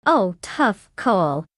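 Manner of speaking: slow, dry sarcastic drawl. Real, not acted. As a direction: drag it out, clearly unimpressed. Mocking a bad car choice.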